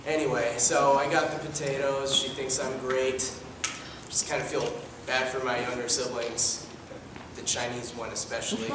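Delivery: deadpan son. Acted. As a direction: mumble it dryly. Plays a deadpan adopted son.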